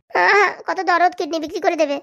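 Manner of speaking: slow, drawn-out sneer of mock pity; sarcastic. Mocking the family's fake concern with a slow sneer. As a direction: drag it out mockingly.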